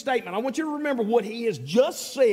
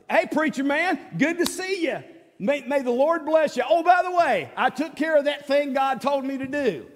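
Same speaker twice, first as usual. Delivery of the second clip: higher, breezy greeting of a self-satisfied king; smug Saul; 5 semitones higher than usual. Retold or imitated. Saul greeting Samuel, lightly voiced, smug. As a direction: play Saul proudly reporting he obeyed.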